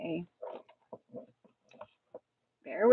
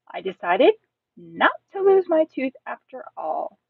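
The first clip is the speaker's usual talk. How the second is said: animated first-person storybook reading; expressive children's story narrator; lively story narration; 4 semitones higher, 5 dB louder than usual. Acted. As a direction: read it as a chatty kid telling their tale. Reads child narrator's story aloud.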